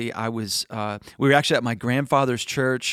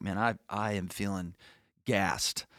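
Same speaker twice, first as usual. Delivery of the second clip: tired mumble; 4 semitones lower, 6 dB quieter than usual. Retold or imitated. Retelling his tired morning self.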